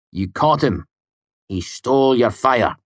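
sarcastic. A narrator's reading. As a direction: needle him with false congratulations. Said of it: "Willem said sarcastically".

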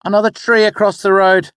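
just report it plainly; explaining. Acted. The boy explaining the stop to his mother. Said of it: "I explained".

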